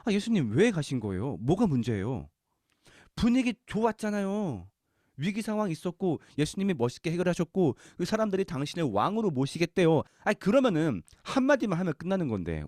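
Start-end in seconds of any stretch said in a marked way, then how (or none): 0.0-10.0 questioning demand. Retold or imitated. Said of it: "따지듯이 물었을 거예요".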